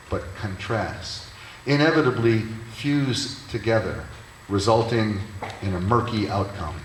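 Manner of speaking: measured poem recital with pauses between phrases; poetry reading. Acted. Reads a poem aloud.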